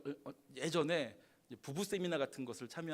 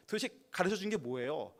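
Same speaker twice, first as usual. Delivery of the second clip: demanding; 3 semitones higher, 5 dB louder than usual. Acted. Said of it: "라고 따지면".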